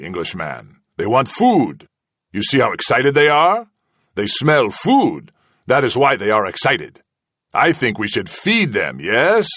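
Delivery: smooth, mocking menace with lifted pitch; menacing interrogator. Villain taunting his prisoner, silkily mocking. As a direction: toy with him like a cat with a mouse. Kazala threatening with the rats.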